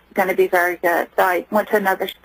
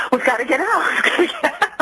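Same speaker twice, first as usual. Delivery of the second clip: urgent, excited; 5 semitones higher, faster than usual. Retold or imitated. Husband's panicked call retold.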